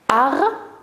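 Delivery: "Harmonica" in four beats, har, mo, ni, ca; split into syllables. Shown as a demonstration. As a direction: pause after every syllable of "Harmonica". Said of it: "Je répète".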